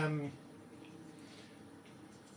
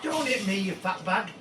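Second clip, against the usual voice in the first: mock-angry taunt. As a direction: heckle the troll in mock outrage. Taunting troll in game fight.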